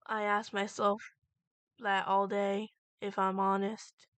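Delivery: soft. Acted. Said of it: "His voice was soft".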